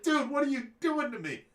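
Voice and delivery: high, loud "Dude" at a friend who caused chaos; retold yell of frustration; exasperated yell. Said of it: "and I yelled at him".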